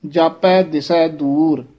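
slow reading with "ਦਿਸੈ" said softly, undoubled s. Shown as a demonstration. Teacher correcting a reader, "ਦਿਸੈ" articulated softly. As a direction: keep the s in "ਦਿਸੈ" light and single. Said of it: "ਦਿਸੈ ਪੋਲਾ ਹੀ ਬੋਲਣਾ ਹੈ".

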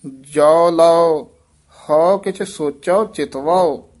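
ਜੋ ਲਓ drawn out slowly and loud, then a pause before ਹਉ; slow held ਜੋ ਲਓ. Shown as a demonstration. Teacher correcting the pupil, holding ਜੋ ਲਓ long. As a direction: stretch ਜੋ ਲਓ long and full, then go on. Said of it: "ਸੋਚਾਓ".

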